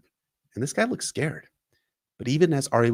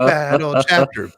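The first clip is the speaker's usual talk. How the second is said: louder announcer voice; 3 semitones higher, 7 dB louder, slower than usual. Shown as a demonstration. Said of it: "final louder take".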